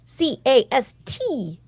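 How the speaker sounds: C A S T spelled slowly, letter by letter. Shown as a demonstration. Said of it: "spells the name out".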